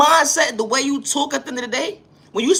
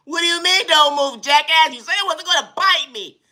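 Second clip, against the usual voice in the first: outraged retort; 5 semitones higher than usual. Acted. Outraged reply to owner.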